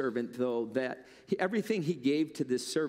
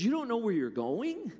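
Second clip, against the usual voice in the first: much higher, startled servant voice; surprised Stick Man; 8 semitones higher than usual. Acted. Stick Man gasps at the master's leaving, much higher voice. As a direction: play the simple servant, high and astonished.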